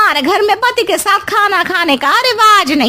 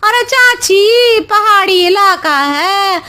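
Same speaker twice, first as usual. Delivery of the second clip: fake crying; 2 semitones lower, slower than usual. Megha feigns worry to mother-in-law.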